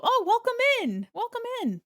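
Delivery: high squealed welcome; high, thrilled hello; excited greeting. Real, not acted. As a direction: burst out welcoming a newcomer. Greeting new follower excitedly.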